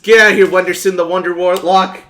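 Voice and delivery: loud shoo-away yell. Acted. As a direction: chase him off. Yelling at wizard.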